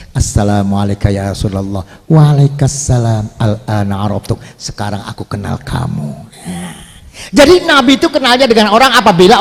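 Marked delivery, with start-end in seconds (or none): 0.1-6.1 low, softening greeting as if smiling; gently acted welcome, fading softer; tersenyum. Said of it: "Nabi sudah tersenyum". (meniru sapaan lembut sambil tersenyum)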